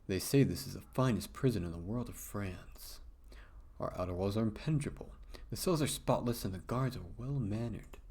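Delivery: a hint of a hushed, proud guard boasting; understated guard proudly describing his prison; lightly voiced guard.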